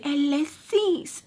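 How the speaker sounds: "Alexis" said as "ah-leh-SEES"; mocking "Alexis", ending in a long "sees"; mispronounced name. Shown as a demonstration. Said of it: "He wouldn't say".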